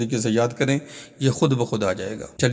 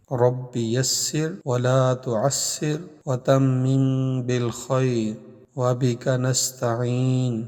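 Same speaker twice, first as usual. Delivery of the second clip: measured Arabic recitation with drawn-out vowels; prayer recitation; slower than usual. Acted. Teacher opening a Quran lesson with prayer, melodic recitation. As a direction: intone the prayer slowly, holding the long syllables.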